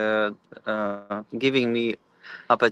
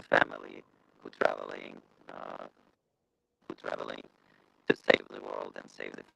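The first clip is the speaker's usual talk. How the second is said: glitchy, cutting out; broken-up internet audio; bad connection; 9 dB quieter than usual. Real, not acted. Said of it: "we're glitching a little bit".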